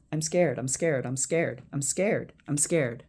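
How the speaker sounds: understated, even repetition of a fear; repeated mantra. Shown as a demonstration. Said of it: "keep repeating it over and over".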